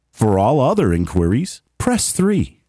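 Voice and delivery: original take of the phone prompt; phone menu voice. Shown as a demonstration. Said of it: "I did some voice, uh, prompts for work".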